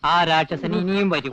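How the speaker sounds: slow, drawn-out warning of a monster; ominous warning. Acted. Telling a friend about the nightmare monster, ominously slow.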